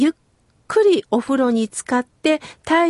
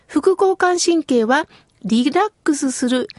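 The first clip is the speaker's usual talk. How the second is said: ordinary talk, nothing marked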